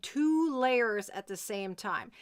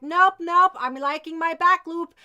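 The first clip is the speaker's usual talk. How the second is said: louder, higher imitation of a balking student; mock refusal; 4 semitones higher, 7 dB louder than usual. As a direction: voice the stubborn objection loudly. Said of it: "You're like".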